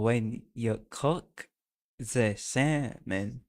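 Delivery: very slow, halting go at a German accent; tentative German accent, drawn out; imitated German accent. Shown as a demonstration. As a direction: imitate a German speaker word by word, with long pauses. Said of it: "imitate, like, a random person speaking".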